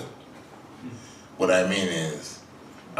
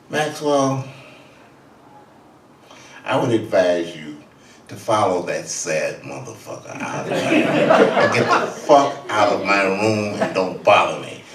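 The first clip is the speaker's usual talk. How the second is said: louder, slowing, ending in laughter; ordering him out; 7 dB louder than usual. Retold or imitated. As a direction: kick him out, building louder. Parker throwing Max out.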